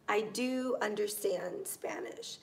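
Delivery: weight on "do", rest unforced; stress on DO. Shown as a demonstration. Teacher adds a further emphasis example, "do" stressed. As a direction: lean on "do" before "understand". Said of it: "just adds more emphasis".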